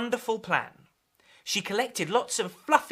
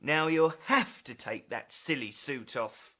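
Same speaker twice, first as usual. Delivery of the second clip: stern dad; 6 semitones lower than usual. Acted. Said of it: "Dad said".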